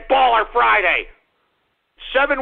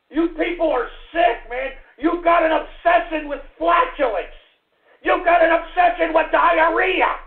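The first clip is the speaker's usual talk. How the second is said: angry rant; 4 semitones higher than usual. Real, not acted. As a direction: yell it in disgust. Ranting at callers.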